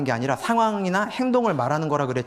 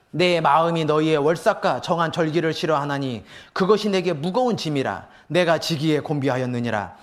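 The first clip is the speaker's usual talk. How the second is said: measured, solemn Bible reading voice; lightly formal scripture recitation. Acted. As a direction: read the verses with weight. Reads Isaiah passage aloud.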